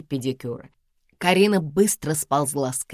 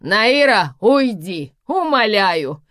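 loud, high desperate plea; pleading; 7 semitones higher, 8 dB louder, much slower than usual. A narrator's reading. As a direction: beg her to leave at full voice. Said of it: "взмолилась Карина". (громкая высокая мольба)

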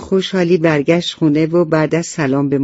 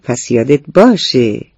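laughing father; 5 dB louder than usual. Acted. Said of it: "پدر خندید و گفت".

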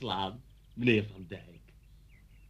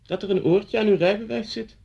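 louder, higher repeat of the complaint; emphatic repeat; 7 semitones higher, 5 dB louder than usual. Acted. Officer repeats the fault to the driver, emphatically. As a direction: spell it out for someone who missed it. Repeats after "Wat zegt u?.

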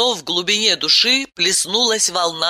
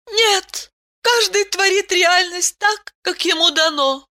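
Aylen's voice; 14 semitones higher than usual. A narrator's reading. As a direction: voice her gently, well above your own.

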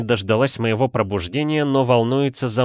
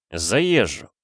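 laughing. Acted. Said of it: "рассмеялся я".

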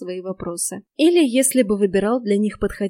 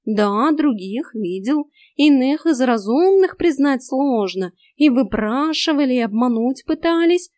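higher, slow, insistent cat voice; earnest talking cat; 5 semitones higher, 6 dB louder, slower than usual. A narrator's reading. Cat earnestly persuades the girl, slow and high. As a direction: plead with her, deliberately. Cat's long earnest plea.

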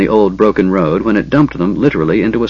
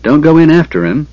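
urgent, higher-pitched warning; raised cautionary command; 6 semitones higher, 4 dB louder than usual. A narrator's reading. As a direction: warn him off quickly and firmly. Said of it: "he warned Sturm".

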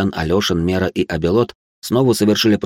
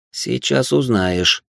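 slow, secretive promise, a bit higher; mysterious promise; 5 semitones higher, much slower than usual. Acted. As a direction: tease the secret, drawn out. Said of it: "таинственно пообещал Кассиан".

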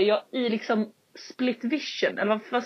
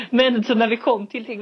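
ordinary talk

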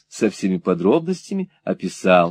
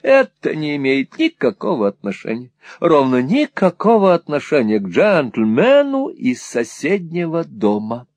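lightly voiced insistent lady; a touch of huffy emphasis; emphatic fussy mother; 2 semitones higher than usual. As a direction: insist as a flustered Mrs Nickleby.

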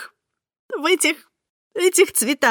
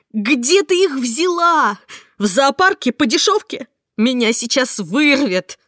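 furious shout; 6 semitones higher, 5 dB louder than usual. Acted. Heroine mocks Marta's excuse, furious shout. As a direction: fling her words back at her with disgust.

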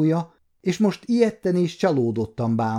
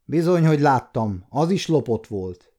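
mild mock shout; 2 semitones higher than usual. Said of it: "kiáltott a kapuőr".

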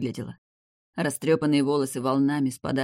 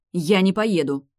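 loud, fast blurted no; blurted refusal; 4 semitones higher, 6 dB louder than usual. A narrator's reading. Fiancée blurts her refusal to her grandfather, loudly. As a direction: blurt it out defiantly. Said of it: "выпалила моя невеста".

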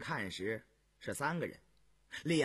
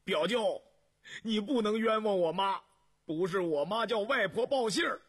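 loud, high, defiant; teenage boy shouts to defend his mother; loud indignant shout; 9 semitones higher, 6 dB louder than usual. A narrator's reading. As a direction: yell it straight at your uncle. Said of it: "挺着脖子大声叫道".

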